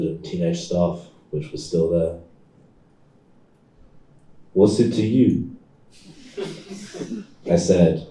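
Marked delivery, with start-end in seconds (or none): 4.5-5.6 a touch of tough-guy gangster menace, half laughing; lightly voiced wise-guy challenge; a hint of a De Niro mobster sneering back; Robert De Niro mafia voice. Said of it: "in a Robert De Niro mafia guy voice".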